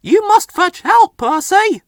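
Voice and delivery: high loud urgent plea; shouted. A narrator's reading. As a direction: yell the order through the snow. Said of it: "the fogman shouted".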